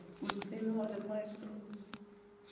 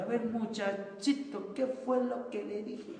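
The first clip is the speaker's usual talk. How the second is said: higher, slow, mock-stern telling-off; a hammed-up cross teacher looming over a kid; scolding teacher; 5 semitones higher, 4 dB louder, slower than usual. Teacher mocking how not to scold a child, slow and stern.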